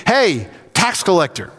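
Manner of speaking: hailing someone by an insult; mock accusing call; mock name-calling. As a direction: call out a label accusingly, lightly acted. Mimicking a rude hail to Zacchaeus.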